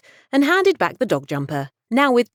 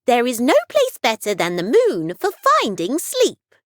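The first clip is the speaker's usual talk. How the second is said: higher, light fairy voice; 6 semitones higher than usual. Acted. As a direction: explain it as a small kindly fairy. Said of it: "said the fairy".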